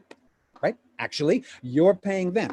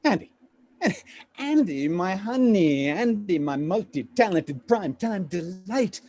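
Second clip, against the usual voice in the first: wheedling flattery. Acted. Agent sweet-talks his client.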